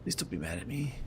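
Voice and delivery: walking on eggshells. Real, not acted. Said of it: "Oh, she's mad".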